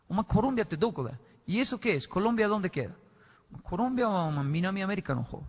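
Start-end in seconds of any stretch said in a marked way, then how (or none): none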